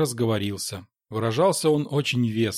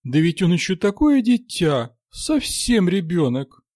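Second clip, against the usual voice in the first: tender; 7 semitones higher, 4 dB louder than usual. A narrator's reading. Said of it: "Нянька умильно посмотрела".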